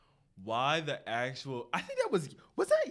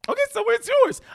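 high mock professor voice; 16 dB louder than usual. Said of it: "professor looked at me like".

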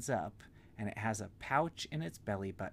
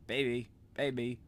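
put-on squawky parrot copying baby; 2 semitones higher, 4 dB louder than usual. Parrot kitty copying Stella in a parrot voice. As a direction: mimic it like a parrot. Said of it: "in a kind of parrot voice".

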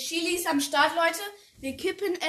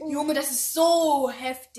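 throat burning from spice; 4 dB louder than usual. Real, not acted. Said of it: "Ah, mein Hals".

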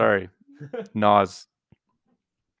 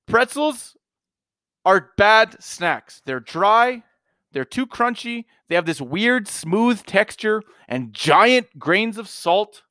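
higher, slow, emphatic pretzel rant; aggressive rant; 6 semitones higher, slower than usual. Real, not acted. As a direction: hammer every complaint home, worked up. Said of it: "You were really aggressive there".

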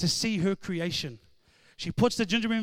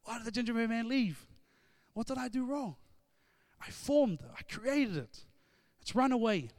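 softer, mild hint of tearful dismay; retold crying; 4 semitones higher, 4 dB quieter than usual. Girl upset the gingerbread man left, softly mock tearful. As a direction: lightly act her upset, hushed. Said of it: "She starts to cry".

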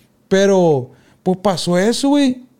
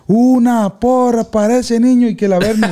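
mocking cheer; 5 semitones higher than usual. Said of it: "La doña, güey, del otro equipo".

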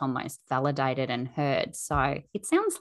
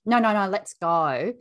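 hurrying parent; 5 semitones higher, 5 dB louder than usual. Acted. Hurrying her children away from playground.

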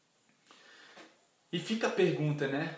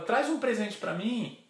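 higher, lightly voiced child; a hint of a pleading little girl; little daughter; 6 semitones higher than usual. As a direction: wheedle daddy in a child's higher voice. Daughter asks father for present.

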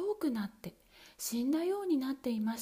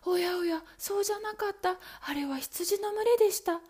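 higher, lightly voiced sister; sister answering; 8 semitones higher, 3 dB louder than usual. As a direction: correct herself with a sigh of letdown. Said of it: "とアンヌ姉さんは答えました".

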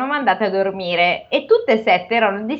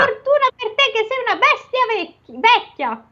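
ogre voice; 11 semitones higher than usual. Acted. Ogre insulting his wife.

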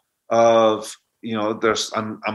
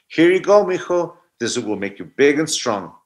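lightly voiced doting grandmother, a touch higher; 3 semitones higher than usual. Grandmother coaxing little grandson to eat soup, lightly voiced. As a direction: coax the child to eat, sweetly.

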